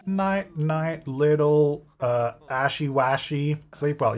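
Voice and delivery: slow, measured bedtime cooing; soothing. Pretend. Player soothes a game infant to sleep, slow and lulling. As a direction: space out each word, lulling a baby. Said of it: "do you need to be soothed?".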